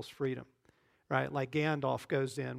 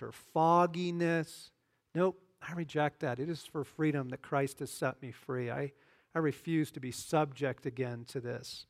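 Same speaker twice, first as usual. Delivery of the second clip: firm, declaring prayer voice; renouncing prayer. Shown as a demonstration. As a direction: pray it out as a declaration against shame.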